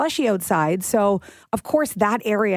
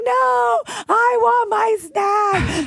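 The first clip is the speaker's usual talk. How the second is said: put-on much higher, loud, slow whiny shouting child; toddler tantrum; 12 semitones higher, 3 dB louder, slower than usual. Daughter begs mom not to throw out snack, imitated tantrum wail. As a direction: mimic a toddler wailing for her snack. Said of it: "having a bit of a temper tantrum".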